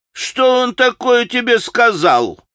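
irritable grumble. Acted. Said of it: "раздражительно проворчал Ракитин".

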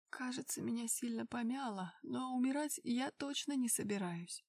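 weak, hoarse hushed voice; hoarse whisper. Acted. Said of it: "хрипло шепнула она". (хриплый шёпот)

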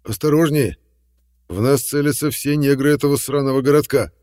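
loud, alarmed warning; urgent warning. A narrator's reading. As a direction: shout the danger out fast. Warning of guns aimed.

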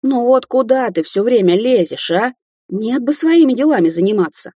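put-on old woman scolding loudly; shouting. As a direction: shout at the owlet. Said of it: "Кварц вдруг закричала".

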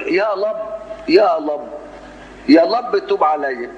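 "يا لب" with R turned to L, high; drawn-out, high "يا لب", L replacing R; imitated speech impediment. Parodying a prophet praying with a lisp, R said as L. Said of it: "نبي يبقى لدغ".

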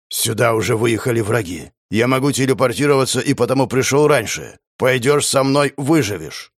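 lightly voiced metallic armor. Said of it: "ржавый металлический голос".

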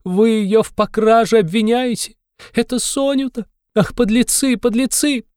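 fly at him as if breaking loose; a woman snapping in outrage, voice far up; outraged outburst. A narrator's reading. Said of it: "точно сорвалась".

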